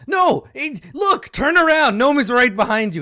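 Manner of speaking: very high, loud panicked gnoll; frantic gnoll pointing out the gnome; squealing urgent gnoll; first gnoll. Acted. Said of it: "he's like".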